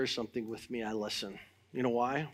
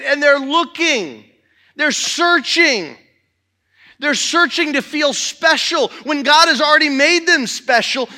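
loud, fervent pulpit preaching, pushing the congregation; preaching at full force; 11 semitones higher, 12 dB louder than usual. Acted. Pastor rousing the church about testifying, fervent loud preaching. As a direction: drive it home to the church with rising fire.

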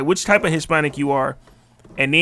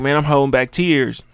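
mock tearful post; slower than usual. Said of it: "I seen motherfuckers like".

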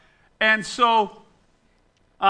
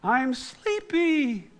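sleepy toy voice, soft and drawn out; slow, drowsy talking-doll impression; Sleep and Snore Ernie; 6 semitones higher, 8 dB quieter, much slower than usual. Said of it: "he would say".

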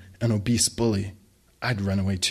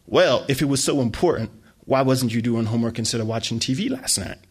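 scolding. Acted. Mom scolding.

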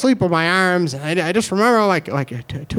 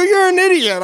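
friends' insult; 11 semitones higher, 4 dB louder than usual. Retold or imitated.

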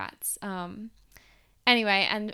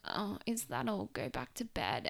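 dismissive parents; 6 dB quieter than usual. Retold or imitated.

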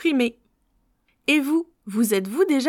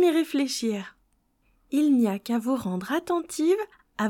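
sultry narrator. Acted. Leads a visualisation.

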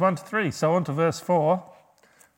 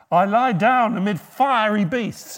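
dramatic reading; 5 semitones higher, 8 dB louder than usual. Acted. Loud dramatic psalm reading.

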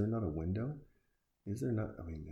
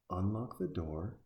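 slow, deliberate "Unlock the door"; slow spelled-out instruction. Real, not acted. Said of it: "Just calm down for a second".

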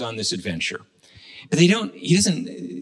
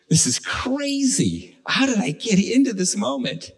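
exasperated disbelief, pitched way up; acted panic; 8 semitones higher than usual. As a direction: play a man overwhelmed by his predicament. Man's dilemma acted out.

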